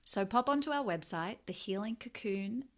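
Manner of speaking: polished, scripted host read for a free meditation; podcast promo read. Real, not acted. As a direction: invite listeners in like a prepared ad read. Host's recorded promo insert.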